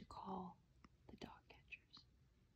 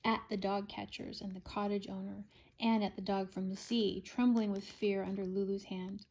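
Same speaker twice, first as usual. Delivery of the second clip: ordinary delivery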